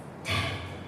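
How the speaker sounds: breathy frustrated sigh; exasperated sigh. Acted. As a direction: let out a performed sigh of annoyance. Exasperated break within her poem.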